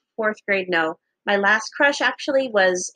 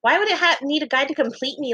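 higher-pitched indignant retort; ranting; 5 semitones higher than usual. Retold or imitated. Girl ranting at classmate about not needing a guy, indignant. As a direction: launch into a retold rant. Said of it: "I went into a freaking rant".

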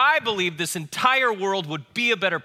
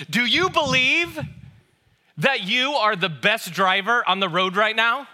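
wife's teasing question; 3 semitones higher, 3 dB louder, slower than usual. Retold or imitated. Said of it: "She said".

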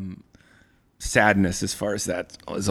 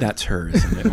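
lightly voiced youth pastor; knowing pastor-like question, rising at end; upbeat youth pastor; 3 semitones lower than usual. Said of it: "you sound like a youth pastor".

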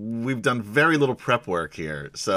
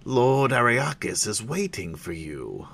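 Sivak guard; 2 semitones higher, slower than usual. Acted. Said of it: "a large Sivak said".

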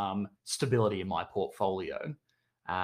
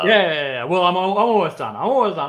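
loud protest; 8 semitones higher, 10 dB louder than usual. Real, not acted. Cut off for talking too long.

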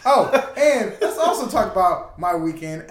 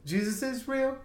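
church testimony; 3 semitones higher, slower than usual. Pretend. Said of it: "sound like a church infomercial".

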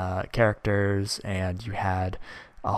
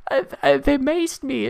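high, whiny, tearful squeal, much higher; mock crying girl; 5 dB louder than usual. Mocking the crying girl from Tennessee, high whiny sob. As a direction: play the sobbing rioter, squeaky and pitiful. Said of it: "she's like".

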